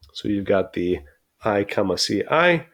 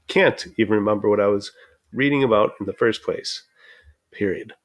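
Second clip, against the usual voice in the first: run-on read breathlessly. Shown as a demonstration. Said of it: "Notice I paused a lot of times".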